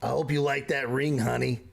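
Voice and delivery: sweet dazed woman. Acted. Dazed Marge teasing Rogar about the ring, sweetly. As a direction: coo it with a knowing smile. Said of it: "she goes".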